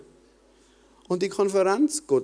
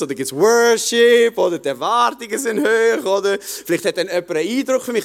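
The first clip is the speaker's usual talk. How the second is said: excited realization; 4 semitones higher, 3 dB louder than usual. Retold or imitated. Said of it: "Und ich habe gewusst".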